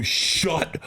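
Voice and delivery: drawn-out, paused amazed reaction; demonstrating a gobsmacked response; mock disbelief. Shown as a demonstration. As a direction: stretch each word in feigned astonishment. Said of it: "you're gonna go".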